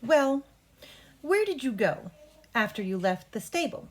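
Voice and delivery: unhurried, clearly spaced question; nice and slow. Shown as a demonstration. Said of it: "Nice and slow".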